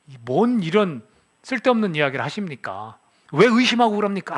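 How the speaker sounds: mild mock rebuke, building at the end; retold scolding. Preacher voices Jacob berating Laban, mildly acted scolding. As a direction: imitate an indignant son-in-law, rising on the last question. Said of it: "막 호통을 쳐요".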